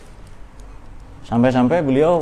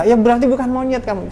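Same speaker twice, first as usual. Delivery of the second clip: playful fatherly answer; 10 semitones higher than usual. Retold or imitated. Father answers child, jokingly.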